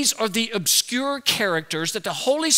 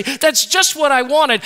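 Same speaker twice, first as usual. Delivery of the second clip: slow, higher, louder fake delight; mock surprise; 5 semitones higher, 5 dB louder, slower than usual. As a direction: ham up a fake thrilled gift reaction. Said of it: "you act surprised and say".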